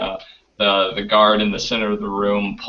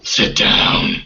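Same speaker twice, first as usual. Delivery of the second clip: gruff guard order; 4 dB louder than usual. Acted. GM voices guard giving order.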